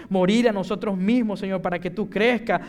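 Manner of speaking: impassioned preacher building towards a close; fervent prayer. Real, not acted. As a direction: pray with rising intensity.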